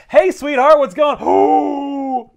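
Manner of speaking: high, slow purring tease; sultry Black Cat. Retold or imitated. Black Cat teases Peter with slow mock seduction. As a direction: coo it slowly, playing the vamp. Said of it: "she's like".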